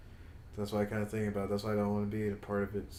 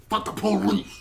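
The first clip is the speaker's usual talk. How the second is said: shouted slogan; 9 semitones higher, 5 dB louder than usual. Real, not acted. Anti-cop rant, shouted slogan.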